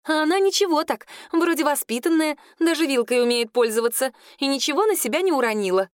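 put-on high, chatty girlish voice; gossiping girl. Claudine reports on the newcomer's manners, high and chatty. Клодина делится сплетней.

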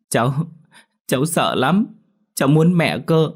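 put-on high, tearful little girl's voice; a scared child whimpering for mum; lightly voiced crying girl; frightened child. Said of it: "Thấy cháu bật khóc".

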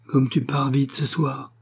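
a father moaning as the ghost fades, slowly. Acted. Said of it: "gémit monsieur de Belleuze".

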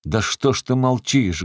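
mock-threatening yell; menacing bark. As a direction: roar it at her to make her answer. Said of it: "гаркнул Захар грозно".

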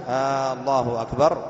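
"الله أكبر" with a long opening "آ"; "آالله أكبر" rising like a question; stretched questioning hamza. Shown as a demonstration. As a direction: lengthen the first vowel of "الله أكبر" as if asking. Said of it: "مددت همزة لفظ الجلالة".

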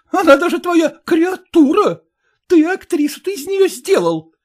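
high, loud, breaking into despair; wife accusing her husband of lying; jealous fury. A narrator's reading. Wife's jealous quarrel continues. (ревнивый надрыв)

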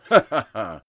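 loud booming ha-ha-ha; hearty villain laugh. Acted. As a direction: cackle in triumph. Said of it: "захохотал он". (громкий злодейский хохот)

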